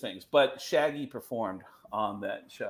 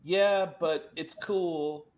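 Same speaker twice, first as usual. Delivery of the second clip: a famous guitarist; 3 semitones higher, slower than usual. Retold or imitated. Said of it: "He goes".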